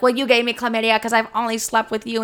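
fast retold comeback; rapid re-enacted accusation; mock screaming retort. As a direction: fire back in a quick argumentative rush. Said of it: "we're both screaming in the hallway".

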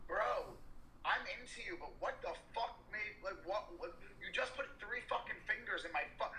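aggressive confrontation. Retold or imitated. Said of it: "like, really aggressive".

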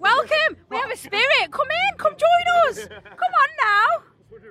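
high, slow ghostly summoning; spooky medium voice. Pretend. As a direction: call the spirits like a medium. Summoning a spirit at seance.

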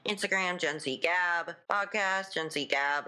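whispery, worn-out voice; voice giving out. Real, not acted. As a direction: voice fading to a whisper. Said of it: "My voice is giving out".

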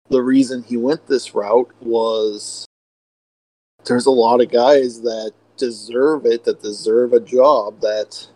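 crackly, breaking-up voice. Real, not acted. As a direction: crackly voice over bad internet. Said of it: "I sound all crackly because of my internet".

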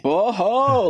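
startled high exclamation; shocked whoa. Real, not acted. Shocked by the photo shown.

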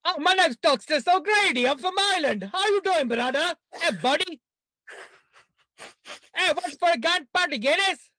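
put-on a stage Irishman greeting his buddy, in an Irish accent. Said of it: "you're the name of the character and that you're from Ireland?".

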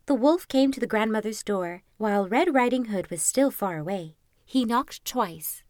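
measured, lilting storybook reading; fairy-tale narration. A narrator's reading. Narrator telling Little Red Riding Hood, storybook narration. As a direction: read it like a bedtime story.

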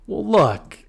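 whispered aside, playfully; a conspiratorial joke whispered; mock confiding whisper. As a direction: lean in and whisper the jab. Confiding joke about Damon.

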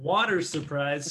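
slow imitation, R sounded in "water". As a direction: drag out "water surprise" deliberately.

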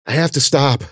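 high, winded plea; gasping. Acted. Wounded Ben begs Cece to halt, gasping. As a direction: plead for a halt, spent. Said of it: "Ben gasped".

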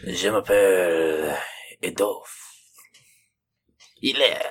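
slow breathy whisper. Pretend. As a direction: whisper it like a secret. Whispered mock intro.

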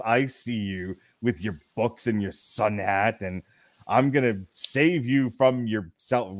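low, slow creepy voyeur murmur; pervy Gossip Girl voice. Retold or imitated. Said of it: "in his pervy Gossip Girl voice".

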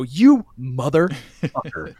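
drawn out, slow and cold; slow menacing insult. Retold or imitated. False prophet to Mickey, slow menacing insult. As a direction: let each word land slowly.

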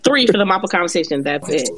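quick, clipped mimic of her line; imitating Simone. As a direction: parrot her wording fast, teasing. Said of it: "It's just the way that she's like".

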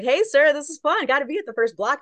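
high, eager hello to a star; giddy fangirl hello; excited fan greeting. Retold or imitated.

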